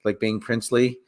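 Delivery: low, monotone mumbled complaint; reluctant prince, low and droning; Flash Thompson. Acted. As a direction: grumble along in a low, soft monotone. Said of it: "Flash Thompson's like".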